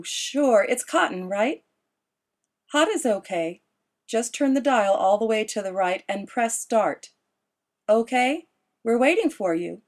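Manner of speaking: Esme on the phone. A narrator's reading. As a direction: coax her son over the phone.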